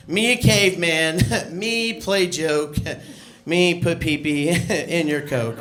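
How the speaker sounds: mock a clumsy fake-Asian caveman voice, lightly; caveman accent mockery. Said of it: "they sound like cavemen".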